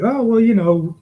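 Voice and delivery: high, loud evasive voice; sheepish dodge. Retold or imitated. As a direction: squirm out of the question. Partner dodging the boss.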